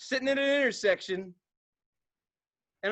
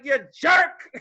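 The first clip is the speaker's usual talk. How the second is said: laughing tease; 6 semitones higher, 9 dB louder than usual. Retold or imitated. Teasing laugh.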